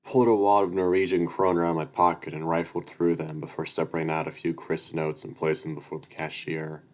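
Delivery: steady read-aloud narrator voice; even storytelling read; story narration. A narrator's reading.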